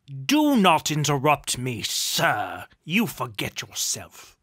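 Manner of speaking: loud, stern command dropping in pitch; imperious, affronted duke; angry rebuke. A narrator's reading. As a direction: put him in his place forcefully.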